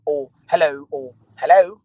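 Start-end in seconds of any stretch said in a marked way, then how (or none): 0.5-0.9 "hello" with the h sounded, falling at the end; regional hello. Shown as a demonstration. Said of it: "sometimes people say". 1.3-1.7 "hello" louder, lifting at the end; regional hello. Shown as a demonstration. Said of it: "it just depends on where you are".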